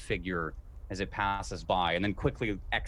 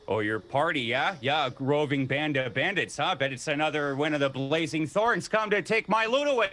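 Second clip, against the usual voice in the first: suspicious guard; 4 semitones higher, 3 dB louder than usual. Acted. Guard accuses party of banditry.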